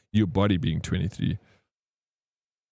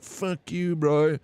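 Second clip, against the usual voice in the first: higher-pitched mock old geezer snarl; cranky old man; 5 semitones higher, much slower than usual. Old man at Buc-ee's flipping someone off, higher mock snarl. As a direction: toss it off like a rude old driver. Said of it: "being like".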